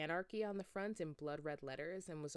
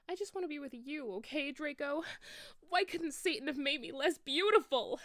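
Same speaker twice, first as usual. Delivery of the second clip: high, loud, whiny complaint; angry shout; 6 semitones higher, 4 dB louder than usual. A narrator's reading. Enoby complaining to Draco about being too pretty, angry. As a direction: rant at him with rising anger. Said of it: "I shouted angrily".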